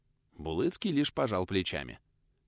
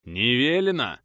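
droning refusal; 4 semitones higher, 7 dB louder, slower than usual. Acted. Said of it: "прогудел рыжий".

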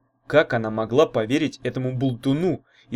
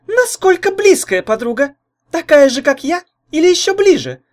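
put-on much higher, louder, pushy young woman; pressing jealous girl; 10 dB louder than usual. A narrator's reading. Jealous girl presses her boyfriend about his friend, high and loud. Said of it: "напирала девица".

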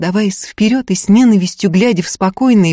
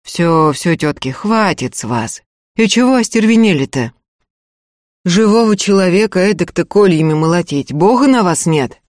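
peaceable coaxing. Acted. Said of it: "довольно миролюбиво уговаривал".

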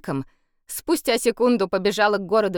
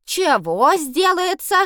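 high, slow baffled question; puzzled asking back; 11 semitones higher, 6 dB louder, slower than usual. A narrator's reading. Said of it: "переспросила Янка". (недоумённый переспрос)

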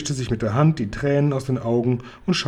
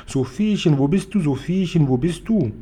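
imitated searching calls; 3 semitones higher than usual. Giant imagines worried parents searching for the girl, calling out. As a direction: call out for a missing child. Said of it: "rufen und rufen".

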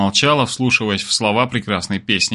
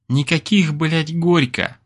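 snorted; 5 semitones higher, slower than usual. A narrator's reading. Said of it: "фыркнула она".

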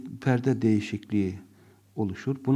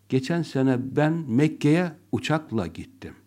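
uçakla stressed right before gittim; 2 semitones higher, 3 dB louder than usual. Shown as a demonstration. Teacher showing the class stress on uçakla. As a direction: lean on uçakla. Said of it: "Uçakla gittiğim çok önemliyse".

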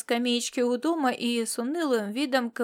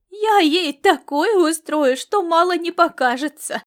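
slow, loud, higher playful menace; mock threat; 6 semitones higher, 8 dB louder than usual. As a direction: promise trouble with a smile. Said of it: "Пообещала она".

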